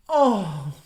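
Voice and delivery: exaggerated aroused groan at a film star; mock lustful moan. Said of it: "making perverted noises".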